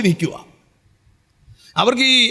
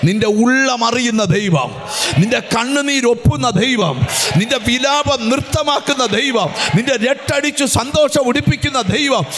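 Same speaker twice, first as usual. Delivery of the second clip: preaching at full force. Acted. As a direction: hammer each line home. Litany of God's deeds, shouted. (ഉച്ചത്തിലുള്ള സ്തുതിഘോഷം)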